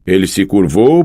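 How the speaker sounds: usual speaking voice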